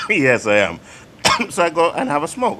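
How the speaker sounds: talking between real coughs; cough, then carry on with the story; coughing, choking. Real, not acted. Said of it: "He's choking".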